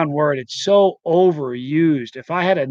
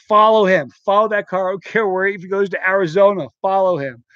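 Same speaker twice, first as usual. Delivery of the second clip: retold heated command to the driver; urgent order; 3 semitones higher than usual. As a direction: order the chase, emphatic. Acted order to chase car.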